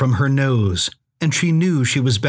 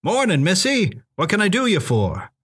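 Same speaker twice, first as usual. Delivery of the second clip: higher-pitched country character voice; folksy greeting; 5 semitones higher than usual. A narrator's reading. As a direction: greet her like a backwoods cabin owner. Cabin owner greets visitor in folksy voice.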